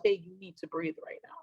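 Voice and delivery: gentle soft note to self to breathe; quiet self-reminder. Retold or imitated. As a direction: say it under your breath to yourself. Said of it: "I remind myself".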